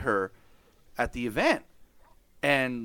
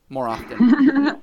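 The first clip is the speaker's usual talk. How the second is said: slow, high, laughing words; 12 semitones higher, 12 dB louder, much slower than usual. Real, not acted. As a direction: laugh through the punchline. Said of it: "laughing at the punchline".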